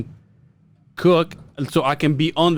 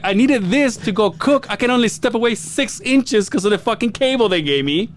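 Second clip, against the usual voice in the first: mock angry mom; 7 semitones higher than usual. Mother complaining in story.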